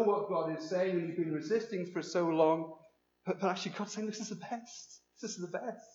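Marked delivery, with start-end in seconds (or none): 4.1-5.8 soft God voice. Acted. God's voice, softly.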